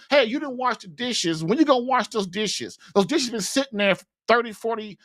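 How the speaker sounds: mildly angry husband's complaint; mock mad nagging. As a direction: imitate a husband griping about chores. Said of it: "sometimes they get mad".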